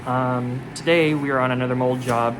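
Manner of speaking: speaking through a safety mask; muffled, mask over the mouth; muffled behind mask. Real, not acted. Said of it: "I don't know if you guys can hear me well with this mask on".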